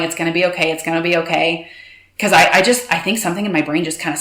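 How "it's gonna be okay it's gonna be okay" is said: reassuring. Retold or imitated. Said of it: "she's holding me going".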